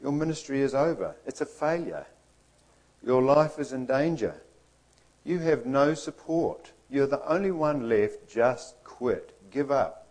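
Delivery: nagging little voice. Acted. Inner voice telling Elijah his ministry is over, mildly nagging. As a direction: nag with mild discouragement. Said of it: "that nagging little voice saying".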